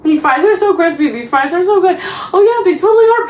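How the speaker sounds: lightly acted small talk, lifting at the end; fake lunch chatter. Vlogger acting a made-up lunch scene, mock chatty enthusiasm. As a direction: play out a made-up chat about fries. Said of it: "I'm just making up this fake scene".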